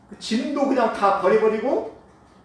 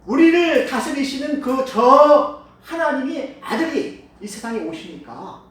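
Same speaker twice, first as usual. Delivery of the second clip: blind man's cry; 3 semitones higher, 6 dB louder, slower than usual. Acted. Preacher voicing blind man's cry.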